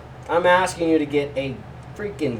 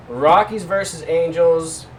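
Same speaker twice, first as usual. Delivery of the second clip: slow, loud and high matchup call; hype announcer; 4 semitones higher, 6 dB louder than usual. Acted. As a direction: announce it like a ring intro.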